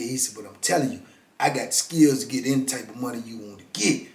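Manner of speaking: soft, low New Orleans pitch; smooth New Orleans hustler talking low; New Orleans accent. Retold or imitated. Hustler pitching his scheme in a New Orleans accent. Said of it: "Got that little New Orleans accent".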